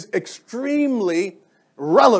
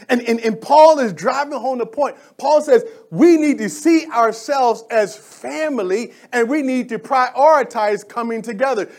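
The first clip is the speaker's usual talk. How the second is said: raised, higher-pitched preacher voice; impassioned preaching; 4 semitones higher, 3 dB louder than usual. Real, not acted. Preacher urging the church to come together as one body, impassioned. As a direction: drive it home like an impassioned preacher. Preacher drives the point home.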